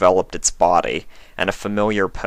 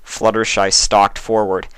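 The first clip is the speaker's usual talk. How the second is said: high, much louder furious shout; angry outburst; 10 dB louder than usual. A narrator's reading. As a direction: defend her loved ones fiercely. Fluttershy confronts changeling.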